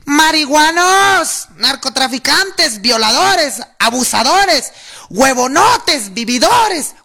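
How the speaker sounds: drawn-out, high protest shouts; long, rising chant of insults at a rally; crowd yelling insults. Retold or imitated. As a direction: bellow each insult slowly like a street protester.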